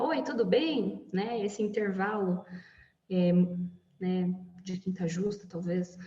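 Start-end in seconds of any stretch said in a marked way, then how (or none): 0.0-1.1 "Oi, tudo bem?" with the pitch lifting high at the end; rising question tune. Shown as a demonstration. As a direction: ask "Oi, tudo bem?" with the melody going way up. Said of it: "a entonação é lá pra cima". (pergunta com entonação lá pra cima)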